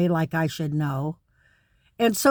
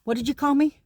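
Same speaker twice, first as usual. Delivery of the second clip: higher, affronted "hold up, what did you call me"; indignant challenge; 3 semitones higher, faster than usual. Pretend. Imagined white person confronting a name-caller, affronted and fast. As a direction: pull yourself up, offended, then rush the offer quickly. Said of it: "standing up and saying".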